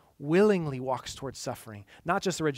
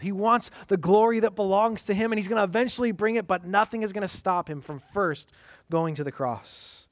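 forceful preaching peak; 6 semitones higher, 6 dB louder than usual. Acted.

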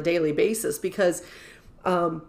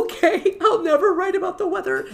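meek reply; 11 semitones higher than usual. Retold or imitated. Her meek reply to boss.

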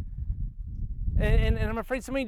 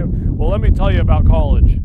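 mock boastful bragging; 4 semitones lower, 13 dB louder than usual. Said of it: "glorify all your sin and say".

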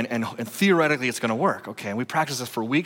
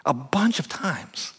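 whisper; slower than usual. Real, not acted. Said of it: "sermon emphasis".

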